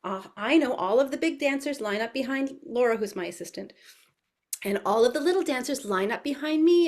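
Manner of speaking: very high, excited rallying of toddlers; high-pitched preschool cheerleading; animated teacher voice. Shown as a demonstration. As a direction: call the little dancers to march with gleeful energy. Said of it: "So I'm in and out".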